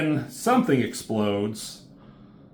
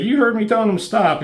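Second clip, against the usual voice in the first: mock angry; 11 semitones higher, 5 dB louder, faster than usual. Character confronts the bully.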